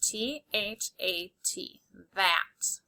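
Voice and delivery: slow and soft, letter by letter; slow spelling. Shown as a demonstration. Teacher spelling that slowly and softly for students. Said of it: "we have to memorize".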